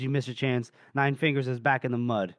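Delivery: unsmiling, matter-of-fact delivery; deadpan. Retold or imitated. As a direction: say it straight, without any smile in it. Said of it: "he's not even smiling at this point".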